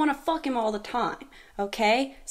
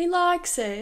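put-on copied British accent, higher, slower; 6 semitones higher than usual. Reacting to a demo clip, repeating a man's remark in a copied UK accent. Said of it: "I didn't mean to copy his accent".

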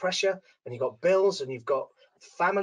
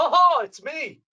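mock, very high, loud, bursting-in grand-entrance voice; 9 semitones higher, 7 dB louder than usual. Describing going in after someone has warmed them up, retelling a grand entrance. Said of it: "I burst on the scene and go".

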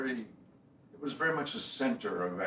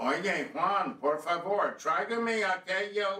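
put-on slow, called-out Spanish with a Brooklyn accent; 9 semitones higher, 5 dB louder than usual. Speaker recalls the lady who ran the bar: imitating Arlene Kaufman's Brooklyn-accented Spanish. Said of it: "but with a Brooklyn accent".

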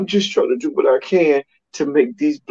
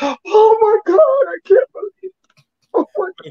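very high, teary, fake sobbing cry. Joking with another speaker, the speaker fakes a dramatic cry: mock crying. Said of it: "I'm gonna end up having to do this sugar ray cry".

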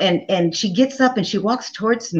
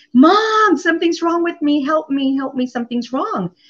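yelling, pitched higher; 8 semitones higher than usual. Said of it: "I was yelling".

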